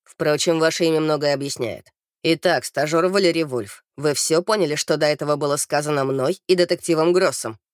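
low, fault-finding officer; captious captain. A narrator's reading. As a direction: question the trainee pickily in a low voice. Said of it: "придирчиво добавил".

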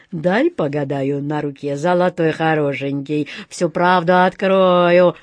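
заискивающая гадалка, в конце медленно и громче; лисьи уговоры, тянуть последние слова; вкрадчиво. Acted. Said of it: "вкрадчиво проговорила она". (вкрадчиво, с растяжкой в конце)

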